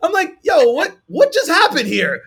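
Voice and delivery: high, loud, baffled; can't believe he just hung up; stunned disbelief. Retold or imitated. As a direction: rep reeling after the hang-up, shocked. Stunned after being hung up.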